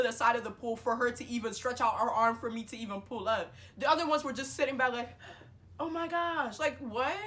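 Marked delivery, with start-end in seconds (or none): 5.8-7.2 high, squealed onlooker gasp of words; high-pitched imitated dismay; mock shock. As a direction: imitate useless bystanders gawking.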